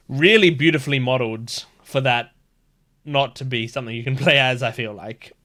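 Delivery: talking through hiccups; words broken by hiccups; hiccuping. Real, not acted. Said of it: "Sorry, I'm hiccuping right now".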